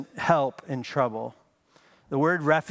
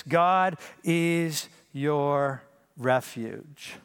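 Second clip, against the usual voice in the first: slow, tender assurance; 2 semitones lower, much slower than usual. Acted. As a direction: linger on every word like a comfort. Slow intimate preaching line.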